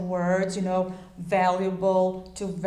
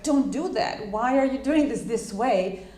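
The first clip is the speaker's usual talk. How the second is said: mock angry feedback; 2 semitones higher, 3 dB louder than usual. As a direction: imitate an annoyed boss snapping feedback. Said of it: "sometimes you get angry, pissed off".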